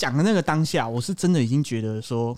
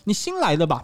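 put-on toned-down Mainland accent; 3 semitones higher than usual. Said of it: "没有到那么夸张".

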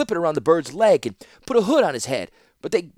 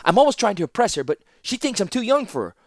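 higher, fast tumbling confession; flustered rush of excuses; 9 semitones higher, 4 dB louder than usual. Acted. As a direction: blurt it all out nervously. Teferi blurting anxious excuses.

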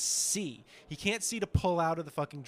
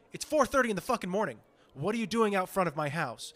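raised, irritated protest; mock exasperation; 4 semitones higher than usual. Star woken to paparazzi outside his house, retold exasperation. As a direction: imitate a fed-up celebrity confronting a photographer. Voicing an annoyed rapper at a paparazzo.

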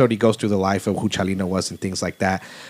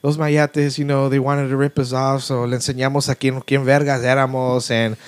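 higher, casual put-on voice; older man casually explaining the bloody truck, voiced much higher; older man's voice; 4 semitones higher than usual. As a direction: tell it breezily in a raised voice, like nothing happened. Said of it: "He's like".

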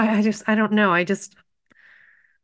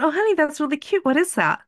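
sweet mom voice; 8 semitones higher, faster than usual. Retold or imitated. Mother praising child's drawing.

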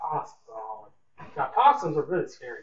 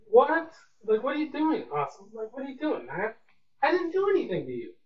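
high, indignant pleading at the possum; a squeaky how-dare-you protest; baffled outcry; 7 semitones higher than usual. Retold or imitated. Asking the possum by the drain why, in a high, indignant outcry.

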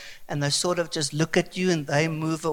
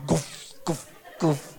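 imitated thudding footsteps; 6 dB quieter, slower than usual. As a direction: mimic the pounding steps quietly. Imitating emu footsteps behind him.

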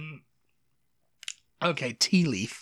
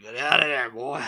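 bad American accent; 2 semitones lower than usual. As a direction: caricature American Southern accent. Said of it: "That's his American accent".

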